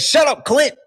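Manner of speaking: high, loud shrill mock snap; hammed-up impression of her yelling; mock angry woman. Mocking how the host snapped at her guest, high and loud. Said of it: "She said".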